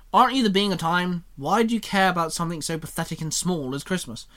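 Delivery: sarcastic. Acted. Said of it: "William said sarcastically".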